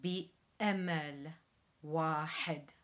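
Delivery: loud Arabic model phrase; Arabic model with glottal stop. Shown as a demonstration. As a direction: say بأمل with a light glottal stop. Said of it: "The translation to Arabic is".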